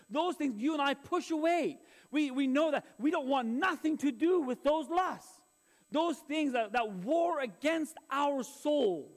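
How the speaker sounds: emphatic, projected sermon voice; preaching. Acted. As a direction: preach it to the congregation in weighty phrases. Preaches to congregation.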